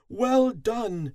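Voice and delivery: loud, high praise from the queen; high, ringing congratulation; queen's delighted cry. A narrator's reading. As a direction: cry it out high to the whole hive. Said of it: "she cried".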